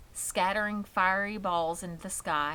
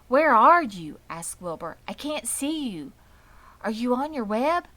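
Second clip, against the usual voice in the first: higher, louder worried calling; anxious pig; 5 semitones higher, 8 dB louder than usual. A narrator's reading. Wilbur calling for Charlotte in the dark, high and worried. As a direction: call out for a friend you can't see.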